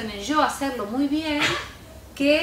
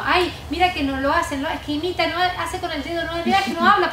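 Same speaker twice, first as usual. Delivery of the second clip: imitating a worried parent, a touch higher; 6 semitones higher, 4 dB louder than usual. Teacher mimics an anxious parent about their silent child, mildly higher. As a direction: fret like a parent whose child won't talk. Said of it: "la gente siempre su preocupación es que".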